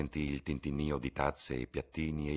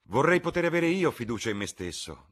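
laughing; 10 semitones higher, 8 dB louder than usual. A narrator's reading. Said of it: "disse Lord Henry ridendo".

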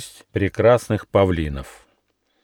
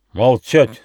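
shout; 4 semitones higher, 7 dB louder than usual. A narrator's reading. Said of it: "закричал командир".

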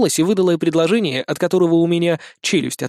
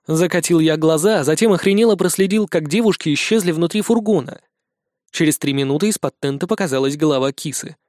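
ordinary delivery, nothing marked

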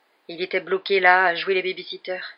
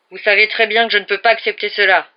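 loud, raised, unyielding; firm refusal; 3 semitones higher, 12 dB louder than usual. A narrator's reading. Sheriff to the hostage taker, loud and firm. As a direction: shut the deal down firmly.

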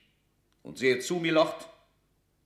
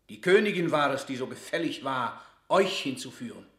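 accusing outburst; 2 semitones higher, 6 dB louder than usual. Acted. Burleigh accuses Leicester.

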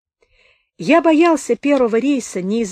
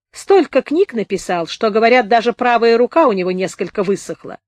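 thin-faced wounded storyteller; 3 semitones higher, 4 dB louder than usual. Acted. Narrator voices Сухолицый telling his tale.

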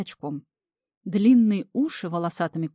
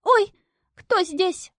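put-on much higher, squeaky girlish voice; thin squeak; 13 semitones higher, 5 dB louder, much slower than usual. A narrator's reading. Imp posing as girl startled by water devil, high squeak. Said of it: "пропищал тонким голоском".

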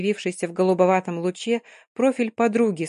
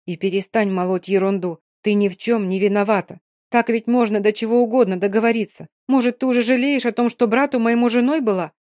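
firm scolding friend, rising louder; 2 semitones higher, 4 dB louder than usual. Acted. Mary scolds Dina firmly.

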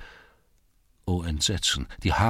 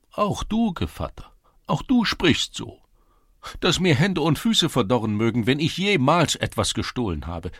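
wounded protest; 6 semitones higher, 4 dB louder than usual. A narrator's reading. Gevatter protests innocence.

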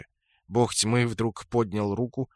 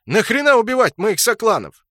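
much higher and louder indignant protest; indignant outcry; 12 semitones higher, 9 dB louder than usual. A narrator's reading. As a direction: cry out in outrage at the killing. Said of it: "возмутился Брутто".

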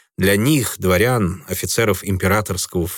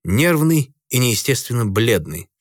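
usual speaking voice

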